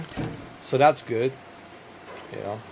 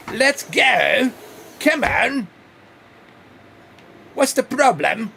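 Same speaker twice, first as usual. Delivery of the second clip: frustrated urging; 8 semitones higher, slower than usual. Real, not acted. Urging stuck truck on.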